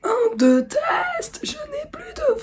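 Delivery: squeaky, cracking voice with almost no sound left; broken voice. Real, not acted. Vlogger testing her lost voice, cracked and squeaking. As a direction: force words through a lost voice. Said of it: "J'ai la voix complètement cassée".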